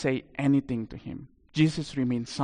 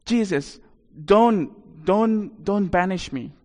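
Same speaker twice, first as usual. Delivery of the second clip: mildly pleading, higher voice; a touch of desperate pleading; begging; 4 semitones higher, slower than usual. Acted. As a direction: beg haltingly, word by word. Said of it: "He begged Jesus again and again".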